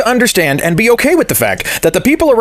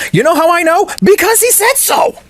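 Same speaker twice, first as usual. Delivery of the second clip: mock gullible fan; 11 semitones higher than usual. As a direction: play a smug, simple-minded believer. Mocking gullible Trump fan answer.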